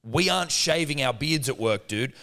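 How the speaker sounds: retelling his comeback to the cleaner; mock indignant retort. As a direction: argue back mockingly. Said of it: "And I go".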